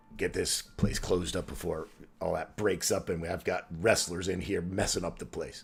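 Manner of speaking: quiet, muttered grumbling under the breath. Voicing a gatekeeper closing up the gates: muttering under his breath. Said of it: "muttering under his breath".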